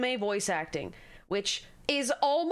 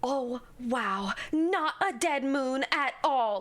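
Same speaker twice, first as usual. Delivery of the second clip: mock quirky, over-acted wonder; quirky dub-anime delivery; slower than usual. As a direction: lightly imitate an overdone anime dub line. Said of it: "you don't have to quirk it up".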